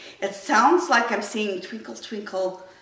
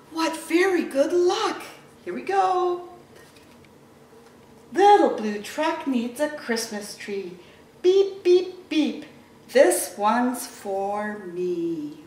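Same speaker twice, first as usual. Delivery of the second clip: lively storybook reading; reading to children; slower than usual. Acted. Teacher reading Little Blue Truck to kids, animated storytelling. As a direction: read it to little ones, animated. Reads picture book to children.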